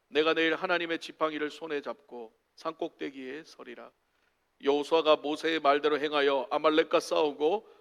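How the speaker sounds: measured, even Bible reading; scripture reading. A narrator's reading. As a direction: read the passage aloud solemnly and steadily. Reads the scripture passage aloud.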